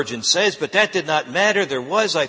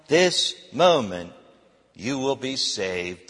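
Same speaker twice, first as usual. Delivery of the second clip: pleading preacher. Acted. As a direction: warn the young man, then soften. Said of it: "He continued".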